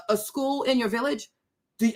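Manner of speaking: normal talking voice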